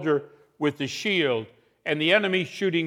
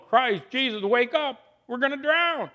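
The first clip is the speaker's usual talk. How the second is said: panicked yell; 10 semitones higher than usual. Acted. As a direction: scream it out like sailors sure they will drown. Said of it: "scream out and yell".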